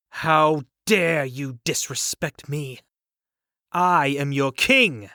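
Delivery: slow, indignant demand; indignant anger. Acted. Arthur with sword at uncle's back, slow indignant anger. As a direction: pull rank with wounded pride.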